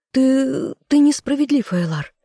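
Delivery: high, shrill-pitched tearful protest; trembling outcry. A narrator's reading. Sister crying out at the king, high and tearful. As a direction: cry out at the injustice. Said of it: "Губы женщины задрожали".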